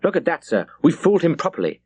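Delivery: eager cry of triumph, held back in volume; excited yell. A narrator's reading. Lieutenant gloating to his captain over the French ship, mild excited yell. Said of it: "yelled Bush".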